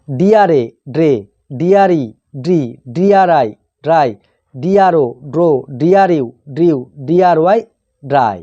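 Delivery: teacher's measured spelling recitation, pausing between items; pronunciation drill. Shown as a demonstration. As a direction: spell out the letters, then sound the blend. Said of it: "উচ্চারণ এইভাবে হয়". (বানান করে উচ্চারণ শেখানো)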